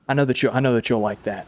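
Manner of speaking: panting a little between words; short of breath after lifting. Real, not acted. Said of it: "I'm out of breath".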